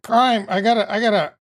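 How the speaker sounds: strained, cracking loud voice; hoarse voice. Real, not acted. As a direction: push through a croaky throat. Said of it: "get your voice back".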